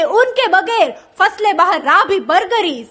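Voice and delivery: poetic recital with punchline. Shown as a demonstration.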